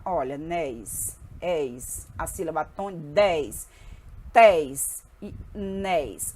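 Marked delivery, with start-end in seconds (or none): 0.4-2.1 "nés" and "eis" isolated, low and drawn out; stressed final syllables. Shown as a demonstration. Teacher isolating word endings for the class, stressed final syllables. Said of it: "a sílaba tônica é a última". 3.1-6.3 "dez", "tés", "nés" each drawn out alone, slowly; stressed final syllables. Shown as a demonstration. Teacher showing which syllable is last, stressed final syllables. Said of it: "A sílaba tônica é a última".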